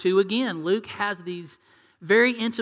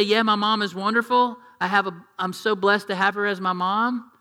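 mock grateful reply; 2 semitones higher, 3 dB louder than usual. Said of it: "You couldn't say".

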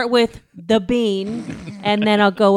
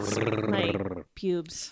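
low deadpan; 12 semitones lower, 8 dB quieter, much slower than usual. Acted. Deadpan low slow punchline.

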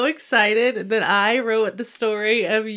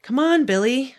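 commanded; 6 semitones higher, 6 dB louder than usual. Acted. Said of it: "I commanded".

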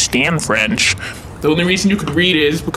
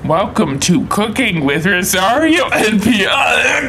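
slow, hammed-up host call; show host intro; 3 semitones higher, slower than usual. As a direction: belt the show opening out. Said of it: "Listen to this".

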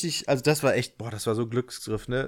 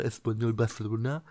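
mock Spanish lisp; 2 semitones lower, 4 dB quieter than usual. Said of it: "nicht richtig gelispelt".

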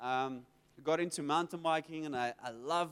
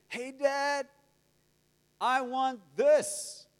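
put-on higher, emphatic child's request; acted-out eager kid; kid asking Dad; 5 semitones higher, 6 dB louder, much slower than usual. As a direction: ask boldly, drawing out the want. Voicing kids asking their dad.

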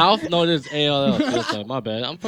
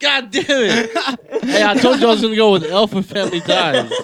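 laughing; 5 semitones higher than usual. Real, not acted. Losing a guess, laughing.

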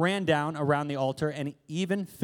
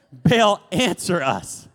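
slow loud cry; 5 dB louder, much slower than usual. Shown as a demonstration. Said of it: "Sorry, he didn't answer".

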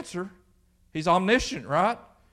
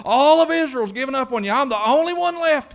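rushed protest climbing higher and louder; Elijah complaining; 5 semitones higher, 4 dB louder, faster than usual. Acted. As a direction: plead your case to God, building to a high wail. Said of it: "That's what Elijah did. He told God".

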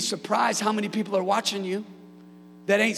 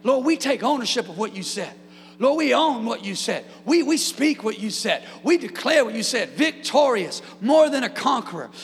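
louder, fervent declared prayer; 6 dB louder than usual. Retold or imitated. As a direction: proclaim it like a congregation praying aloud. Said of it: "that's what we were praying".

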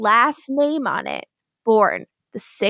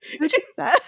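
quoting the sketch; 5 semitones higher, much faster than usual. Retold or imitated. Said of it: "In that sketch with Ego".

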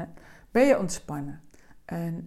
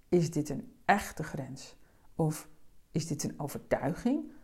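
slowed down; 3 semitones lower than usual. Shown as a demonstration. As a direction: let each question hang, no rush. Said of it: "En je hoort het al aan mijn stem, daar moet je voor vertragen".

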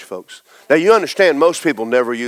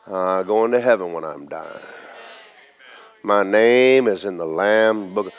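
sincere confession; 6 semitones lower, 3 dB quieter, slower than usual. Shown as a demonstration. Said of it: "ought to be".

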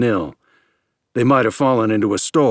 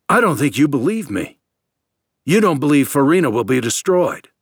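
hot, accusing outburst, louder; violent; 6 semitones higher, 4 dB louder than usual. A narrator's reading. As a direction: hurl it at him in anger. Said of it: "He added violently".

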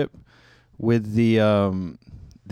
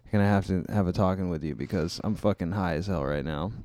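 stoned. Real, not acted. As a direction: talk while stoned. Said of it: "so I'm stoned right now".

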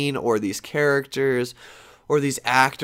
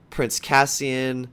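slow plain naming; much slower than usual. Real, not acted. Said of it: "Did I just fucking say that?".

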